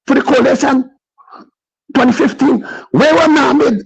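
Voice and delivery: breathless after a long rant; winded, pushing words out; out of breath. Real, not acted. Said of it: "I'm out of breath".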